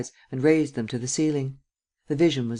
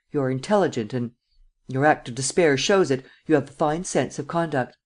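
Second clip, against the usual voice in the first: hard voice. Acted. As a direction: lay it out hard and cold. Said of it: "uttered in a hard voice".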